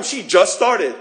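loud, offended complaint; jealous grumble; indignant complaint. Retold or imitated. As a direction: say it like it's unfair. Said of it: "And you start complaining".

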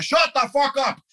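put-on very high, loud New York accent yell; thick New York accent. Singer snapping at drummer in cab, shouted New York accent. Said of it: "in this thick New York accent".

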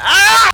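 sudden high yelp of alarm; startled yelp. Acted. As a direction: cry out in shock. Whale lifts tail, startled cry.

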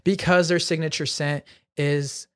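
measured, announcer-like sponsor read. Acted. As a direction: deliver it like a podcast sponsor shout-out. Reads sponsor ad.

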